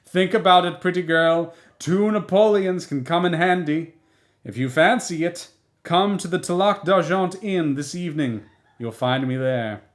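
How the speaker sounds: put-on loud call after a fleeing girl; shouting after her. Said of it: "the man shouting after her".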